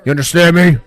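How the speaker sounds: a hint of a worker in trouble; mock strained voice. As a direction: drag it out like he's choking on something. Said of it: "he's like".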